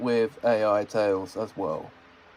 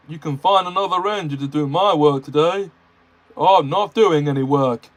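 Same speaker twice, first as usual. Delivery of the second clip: sulky Gordon; 3 semitones higher, 5 dB louder than usual. Acted. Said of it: "said Gordon sulkily".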